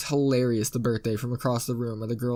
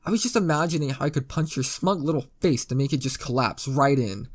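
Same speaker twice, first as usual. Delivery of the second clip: ordinary delivery, nothing marked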